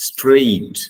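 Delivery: straight said high and loud, streyt; correct straight. Shown as a demonstration. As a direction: call out straight clearly. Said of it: "This is".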